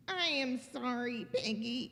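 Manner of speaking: low, soft apology; sad Gerald. Acted. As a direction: say it softly and low, downcast. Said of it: "Gerald is very sad".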